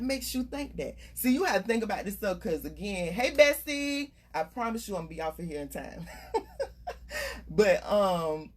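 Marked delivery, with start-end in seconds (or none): 3.1-4.1 calling out. Real, not acted. Greets viewer mid-talk. 6.1-7.4 a quick breathy laugh, high up; sudden airy giggle. Real, not acted. Laughs at herself mid-talk.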